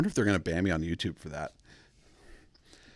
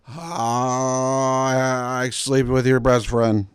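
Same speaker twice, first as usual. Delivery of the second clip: giddy blurt; 5 semitones higher, 8 dB louder, much slower than usual. Retold or imitated. Guy on laughing gas blurting.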